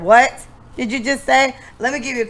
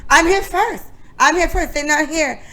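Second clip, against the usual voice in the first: put-on butcher a Haitian accent on purpose; imitating the Haitian woman's accent; 8 semitones higher than usual. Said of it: "I'm gonna do a Haitian accent and I know I'm gonna butcher it".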